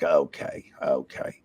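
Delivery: retold deflated agreement; meek acceptance. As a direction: accept it small, second word whispered. Meekly accepting Johnny's brush-off.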